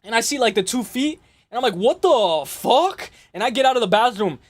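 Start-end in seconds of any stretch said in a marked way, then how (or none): 1.8-3.1 drawn-out disbelieving exclamation; mock-stunned, very slow; stunned slow what. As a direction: stretch it out, stunned. Retold shocked reaction.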